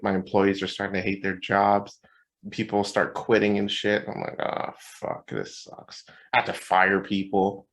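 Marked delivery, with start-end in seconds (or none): 4.4-6.0 low, unvoiced sigh of defeat; retold hushed resignation; dejected aside. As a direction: breathe it out, acting worn down. Retold dejection as people quit.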